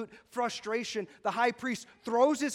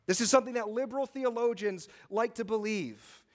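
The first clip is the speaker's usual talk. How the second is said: usual speaking voice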